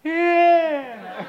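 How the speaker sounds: high, strained mock-nervous yeah; nervous reply. Shaking newcomer answering the group, nervous reply. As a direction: squeal back a mock-panicked answer.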